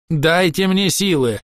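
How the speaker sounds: high, slow plea for strength; desperate elf crying out; pleading cry. A narrator's reading. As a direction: beg the trees for power.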